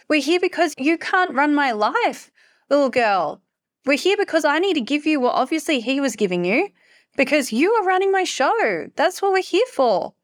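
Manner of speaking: high-pitched, insistent telling-off; exasperated scolding retort. Retold or imitated. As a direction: re-enact scolding a child, each reason pitched high. Acted scolding of her inner child.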